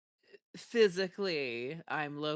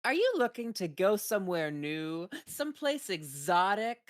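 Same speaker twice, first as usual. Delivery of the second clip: ad voice; 5 semitones higher, 4 dB louder than usual. Retold or imitated. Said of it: "she goes".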